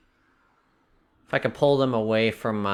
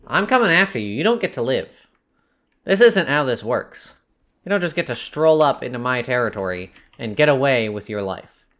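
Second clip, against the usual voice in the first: taunting; 4 dB louder than usual. Real, not acted. Taunting an enemy in game.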